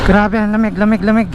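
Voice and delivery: shivering from the cold; teeth-chattering cold voice. Real, not acted. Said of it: "nanginginig yung kamay ko". (nanginginig sa lamig)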